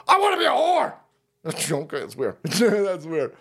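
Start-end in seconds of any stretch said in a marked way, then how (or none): 0.1-0.9 mock whiny woman. Host mocking women online, high wail.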